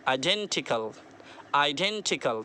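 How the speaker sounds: आइडेंटिकल with a stretched डें, falling after; stress on DEN. Shown as a demonstration. Teacher shows how to say it, long stressed डें in आइडेंटिकल. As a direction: draw out डें, then drop through टिकल. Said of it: "डेन को थोड़ा खींचना है".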